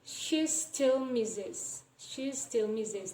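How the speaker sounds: "she still misses" slow, "she" run into the S of "still"; "she still" linked like shes-till; assimilated S. Shown as a demonstration. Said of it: "example of regressive assimilation".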